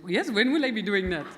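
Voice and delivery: playful Indian accent, laughing at her own attempt; mock Indian accent. Redoing the reply to joke about her accents, mock Indian accent. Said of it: "they always sound Indian".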